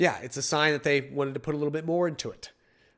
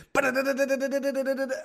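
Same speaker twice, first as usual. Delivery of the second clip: high rapid babble; 9 semitones higher, faster than usual. Retold or imitated. Imitating needles dancing on lips.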